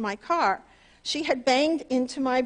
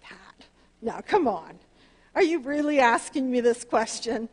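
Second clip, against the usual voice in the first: lightly voiced Jesus chuckling at her; understated amused reproach; amused gentle Jesus. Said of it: "you know how you go".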